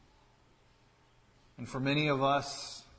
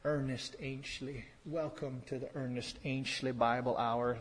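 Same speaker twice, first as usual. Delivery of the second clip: a hint of a hammed-up TV preacher, softer; Ernest Ainshley impression; 4 dB quieter than usual. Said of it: "he talks like this".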